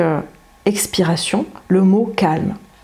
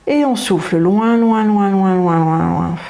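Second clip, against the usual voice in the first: drawn-out loins easing down; slow breath-out guidance. Shown as a demonstration. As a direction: stretch each loin like a long exhale. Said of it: "on retient l'air".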